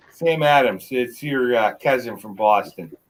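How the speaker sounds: quoting the beer ad slogan; commercial tagline. Retold or imitated. Friend quoting a beer commercial tagline, mock ad voice. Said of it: "I don't know if you've heard those commercials".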